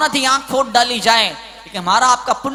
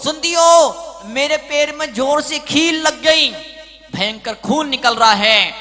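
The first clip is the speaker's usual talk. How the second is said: high, urgent husband calling out; husband phoning wife; 5 semitones higher, 4 dB louder than usual. Acted. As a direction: call out in alarm, raised and pitched up. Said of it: "पति घर पे phone करता पत्नी को".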